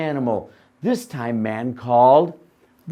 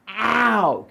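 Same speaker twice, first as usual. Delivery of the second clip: animal cry; 7 semitones higher, 3 dB louder than usual. Shown as a demonstration. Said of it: "Can you do that?".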